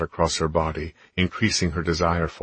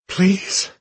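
high, loud desperate plea; begging; 6 dB louder than usual. A narrator's reading. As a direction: cry out in pleading need. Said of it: "she begged".

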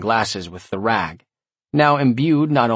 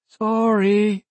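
high, sulky little demon; sad whiny demon; 12 semitones higher than usual. A narrator's reading. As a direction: apologize like a scolded imp. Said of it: "he said sadly".

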